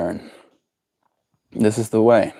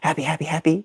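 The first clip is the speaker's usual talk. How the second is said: much softer murmured happy, happy; soft cooing; 3 semitones higher, 6 dB quieter, faster than usual. Real, not acted. Owner soothing the parrot, soft cooing. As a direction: hush it to the bird.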